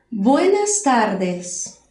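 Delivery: very drawn-out "Buenas tardes"; slow repeat-after-me model. Shown as a demonstration. Spanish teacher models greetings for the class, slow and deliberate. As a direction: stretch "Buenas tardes" slowly for learners to echo. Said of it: "Repitam depois de mim".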